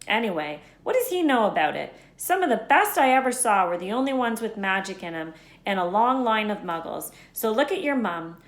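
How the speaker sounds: half-play Hagrid, amazed Harry knows so little; Hagrid voiced. A hint of Hagrid exclaiming to Harry.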